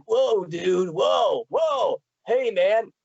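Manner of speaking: lightly imitated surfer-dude turtle; a hint of laid-back surfer dude; Michelangelo. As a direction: toss out mock surfer-turtle exclamations. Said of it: "a turtle that talks like Michelangelo".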